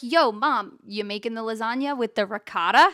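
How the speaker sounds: casual American "ricotta", ri-KAH-da; everyday American "ricotta"; American pronunciation. Acted. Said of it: "I would be like".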